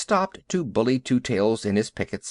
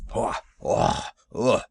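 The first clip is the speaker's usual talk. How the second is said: bullocks' grunting snort; 4 semitones lower, slower than usual. A narrator's reading. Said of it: "said the bullocks".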